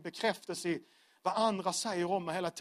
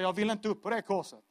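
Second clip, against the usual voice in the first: raised, louder voice of stubborn protest; acted refusal; 4 semitones higher, 5 dB louder than usual. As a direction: dig in with emphatic, insistent refusals. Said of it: "hela jag vill säga".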